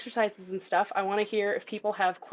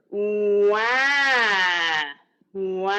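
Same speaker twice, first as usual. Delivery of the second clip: put-on relaxed baby cry; 4 dB louder than usual. Shown as a demonstration. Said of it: "hinge and clench".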